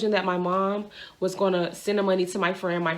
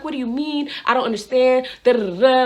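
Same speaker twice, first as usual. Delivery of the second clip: raised, agitated mock rant; going crazy; 4 semitones higher, 4 dB louder than usual. Driver to officer about jail, going crazy. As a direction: rattle off a retold rant. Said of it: "I'm going crazy".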